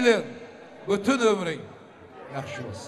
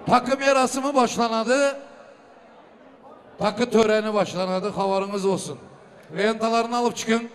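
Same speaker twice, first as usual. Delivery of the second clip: booming wedding announcer. Acted. Emcee announces the gift ceremony.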